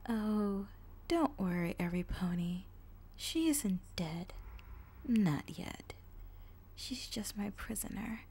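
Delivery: slow, sly whisper of a dark mare; creepy villain voice. Acted. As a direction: purr the greeting like a lurking villain. Villain addresses audience.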